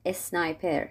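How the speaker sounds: "اسنایپر" with an e before the s; Persian-accented s cluster. Shown as a demonstration. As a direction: open "اسنایپر" with a vowel, es-naiper. («اسنایپر» با اِ در اول)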